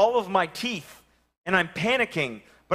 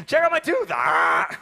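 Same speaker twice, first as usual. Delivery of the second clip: put-on a little girl showing off her loose tooth; gleeful child shout; excited child; 5 dB louder, slower than usual.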